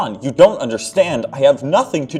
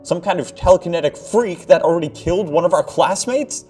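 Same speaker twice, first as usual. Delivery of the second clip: much higher, louder, frightened and pleading; panicked protest; 10 semitones higher, 6 dB louder than usual. Acted. Mark begging John to release him, higher and loud. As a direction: plead with an old friend in terror. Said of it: "he cried".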